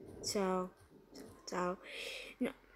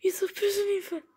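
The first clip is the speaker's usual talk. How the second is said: unvoiced whisper, last words rising higher and faster; scared whisper; 10 semitones higher, much faster than usual. Real, not acted. Gamer hiding from animatronics, tense whisper.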